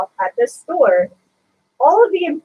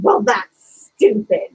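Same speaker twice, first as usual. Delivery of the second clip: retold dismissive customer; 3 semitones lower, much slower than usual. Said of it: "she said".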